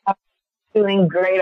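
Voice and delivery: hoarse, croaky voice from a cold; frog voice. Real, not acted. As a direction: croak it out with a sore throat. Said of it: "I sound a little like a frog".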